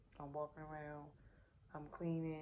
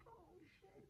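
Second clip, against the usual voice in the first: tiny, very high hushed exclamation; retold shock; 14 semitones higher, 19 dB quieter than usual. Mother hearing head is already out, shocked. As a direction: squeak it out softly in mock shock. Retelling her shock at the news.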